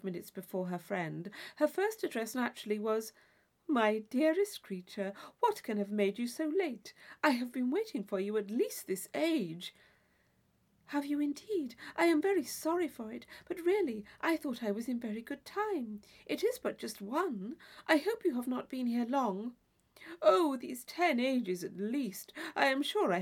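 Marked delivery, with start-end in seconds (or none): 3.7-9.7 lightly voiced effusive young lady; a hint of a fond, fussy friend; Isabella, gushing. Isabella greets her friend. 10.9-19.5 lightly voiced earnest young girl; sorry but sure she was on time; gentle, slightly higher young heroine; Catherine, apologetic.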